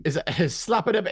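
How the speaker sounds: laughing Irish leprechaun lilt; high playful leprechaun voice; leprechaun accent. Pretend. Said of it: "sound like a leprechaun".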